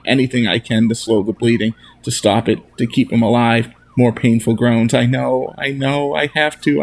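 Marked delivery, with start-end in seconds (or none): 4.9-6.8 sobbing. Acted. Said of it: "I say, and sob".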